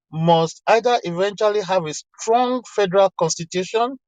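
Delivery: quoted line with "strong" picked out; stress on strong. Retold or imitated. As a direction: lean on "strong" a little. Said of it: "he put emphasis on the word strong".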